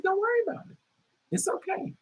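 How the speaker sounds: retold soothing, high and small; soft reassurance. Telling upset coworker not to worry, softly reassuring. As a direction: comfort gently in a light, high voice.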